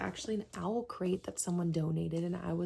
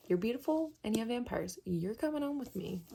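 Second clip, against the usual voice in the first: playful cooing; 4 semitones higher than usual. Retold or imitated. Acts out talking to the book.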